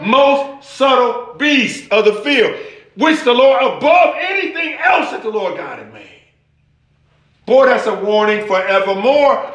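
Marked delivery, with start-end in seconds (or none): 0.0-6.2 rising fervent scripture preaching. Acted. Pastor preaching Genesis to church, fervent. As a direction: preach it out to the congregation.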